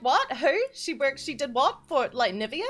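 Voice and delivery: lightly acted confused questioning; retold bafflement. Streamer retelling people's reaction to Nvidia, mock bafflement. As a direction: fire off puzzled questions as an imitation. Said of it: "They were like".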